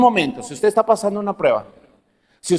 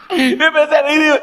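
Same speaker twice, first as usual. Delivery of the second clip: higher and brighter, amused exclamation; excited; 7 semitones higher, 3 dB louder than usual. Real, not acted. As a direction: get carried away by the memory. (emocionado y divertido)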